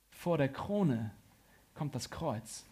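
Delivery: slow, with a pause before „kommt das Kreuz“; slow, weighty statement. Real, not acted. Preacher stating that the cross comes first, slow and weighty. Key line given slowly, then repeated.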